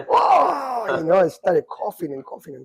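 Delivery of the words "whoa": retold loud, high-pitched whoa; big drawn-out whoa, re-enacting the shock; startled whoa. Storyteller reliving his first hit for listeners, startled whoa.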